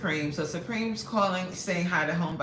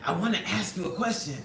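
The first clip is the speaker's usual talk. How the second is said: mocking Supreme. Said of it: "He loved to be like".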